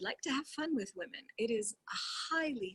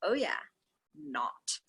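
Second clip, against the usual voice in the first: sarcastic aside; 5 semitones lower, slower than usual. Real, not acted. Sarcastic aside while reading.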